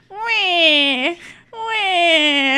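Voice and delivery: high, loud mock baby wail; baby crying impression. Player tells Jonas to cry, mock baby wailing. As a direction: wail "wee" in long, put-on baby cries. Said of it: "start crying like a little baby".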